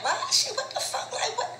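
high, incredulous laughing outburst; laughing disbelief. Retold or imitated. Retelling her reaction to the video, a high laughing disbelief. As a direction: squeal it out in laughing shock. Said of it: "'cause I was like".

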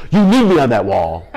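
gruff hammed-up Nicholson courtroom line; mock Jack Nicholson defiance; Jack Nicholson impression. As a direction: play it like the colonel on the stand, laughing through it. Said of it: "like Jack Nicholson in A Few Good Men".

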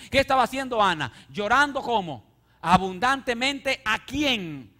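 loud, rising fervent preaching; preaching at full force. Acted. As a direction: preach it hard to the congregation. (predicación a todo pulmón, con fervor)

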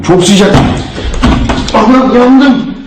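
slow, laughing yelp of pain; laughing at the burn. Real, not acted. Burned by something hot.

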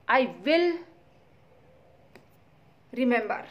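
put-on a light copy of the girl's indignant voice; mimicking her tone. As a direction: echo her words back in a mild mock of her.

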